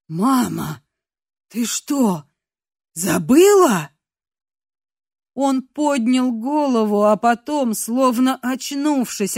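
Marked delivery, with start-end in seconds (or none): 0.1-3.9 put-on hurt child.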